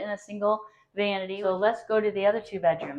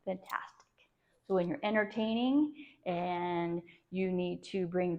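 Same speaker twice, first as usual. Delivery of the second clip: breathy whispered aside; whispering; 6 dB quieter than usual. Real, not acted. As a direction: drop to a whisper mid-tour. Half-voiced aside while moving camera.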